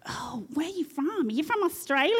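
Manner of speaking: high, puzzled question, rising at the end; acted high-voiced curiosity; curious questioner. Acted patients' question in a story.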